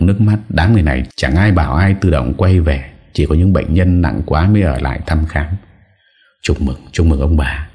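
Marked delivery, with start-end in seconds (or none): none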